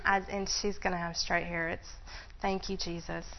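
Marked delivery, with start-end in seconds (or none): none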